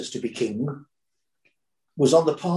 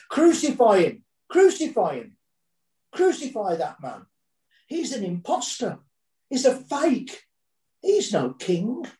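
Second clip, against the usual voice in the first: crowd shouting; 7 semitones higher than usual. A narrator's reading. Preacher voicing the mob turning on Jesus, shouting. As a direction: burst it out like an angry mob. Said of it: "finally bursting with power as they shouted".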